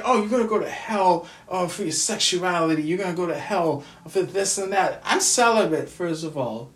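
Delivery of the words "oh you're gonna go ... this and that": a laughing mock of a judgmental churchgoer; mocking preachy people. Mocking the people who say he's going to hell, with a laugh. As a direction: sneer it out with a laugh, imitating them. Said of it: "I'm tired of people saying".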